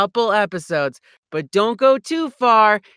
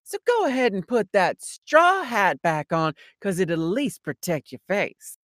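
Southern drawl. Retold or imitated. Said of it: "the cowboy voice".

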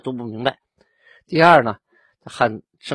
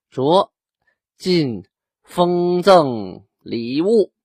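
royal decree; 6 semitones higher, 6 dB louder, much slower than usual. Retold or imitated. Emperor's decree read out.

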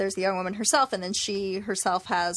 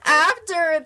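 laughing through the words; giggling while talking; 9 semitones higher, 4 dB louder, slower than usual. Real, not acted. Laughing while telling the story.

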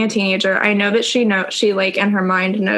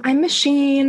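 mock introduction; 5 semitones higher than usual. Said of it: "introducing yourself as Machine".

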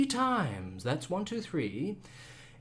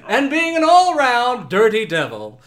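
game show host; 3 semitones higher, 5 dB louder than usual. Acted. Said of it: "I'm your host".

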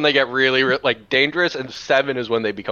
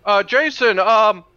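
polite dad voice; 6 semitones higher than usual. Acted. Stan asks for mower.

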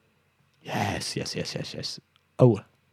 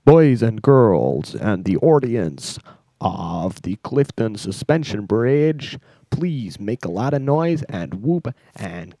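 announcer; slower than usual. Pretend. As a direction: stretch it out and build to a big reveal. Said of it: "me as Best introduce you".

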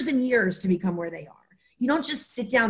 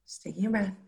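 soft echo; 7 dB quieter, faster than usual. Shown as a demonstration. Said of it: "repeats after partner".

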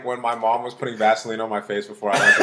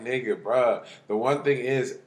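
laughing; 5 dB louder than usual. Retold or imitated. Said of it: "I was like".

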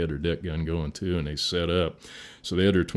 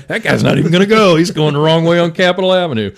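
mock cops scoffing; 13 semitones higher, 17 dB louder than usual. Mocking the cops' thoughts.

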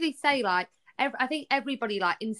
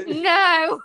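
loud, higher mock yell amid laughter; retold horrified refusal; 7 semitones higher, 7 dB louder than usual. Wife repeats husband's answer to the midwife, laughing mock horror. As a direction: cry it out in comic horror, half laughing.

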